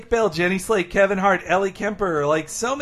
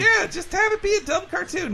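cartoony voice; 12 semitones higher than usual. Mocking cartoon voice.

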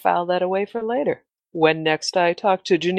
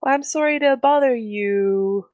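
sultry voice; 6 semitones higher than usual. Acted. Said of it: "sultry voice".

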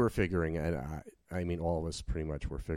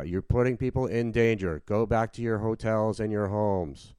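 louder, higher mock police megaphone call; imitated megaphone announcement; 4 semitones higher, 6 dB louder than usual. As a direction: imitate an officer ordering crowds home over a megaphone. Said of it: "talking on the, the, uh, megaphone".

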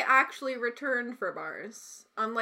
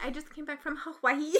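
airy, fast tourist voice; mock white tourist voice; tourist impression; 5 dB quieter, faster than usual. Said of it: "say it like white people who go there".

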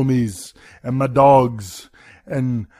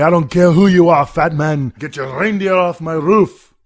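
louder action-hero threat to the intruder; tough warning; 4 semitones higher, 5 dB louder than usual. Pretend. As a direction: growl it out like an action hero facing a burglar. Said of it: "I'm gonna say".

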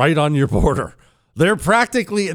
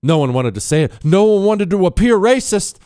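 usual speaking voice

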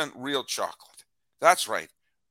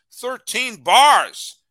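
excited shout; 9 semitones higher, 11 dB louder, much slower than usual. Acted. Excited ad read exclamation.

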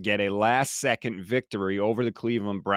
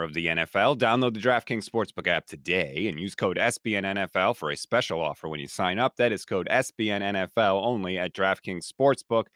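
hoarse voice from a cold; 2 semitones lower than usual. Real, not acted. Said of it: "I apologize for my terrible voice".

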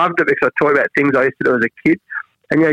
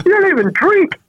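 much higher mock-shocked wife; a hint of the wife's amazement, pitched up; wife in disbelief. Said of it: "She goes".

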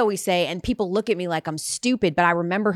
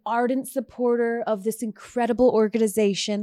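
event introducer; 3 semitones higher than usual. Retold or imitated. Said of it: "goes up to introduce me".

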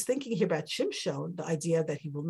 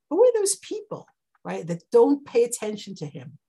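emphatic question; 3 semitones higher, 8 dB louder than usual. Real, not acted.

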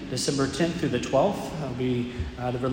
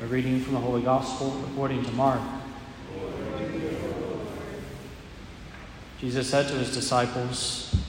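measured solemn scripture reading; Gospel reading. Acted.

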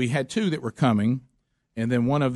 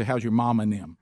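Southern phrase; 3 semitones lower than usual. Shown as a demonstration. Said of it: "But you say".

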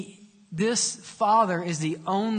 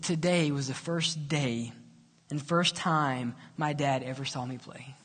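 hushed reveal; 6 semitones lower, 6 dB quieter than usual. Acted. Player's emotional reveal to coach.

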